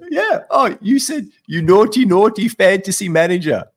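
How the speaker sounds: high, loud, delighted shout of recognition; hammed-up cheeky fan calling out; excited fan greeting. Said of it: "he turns to me and he goes".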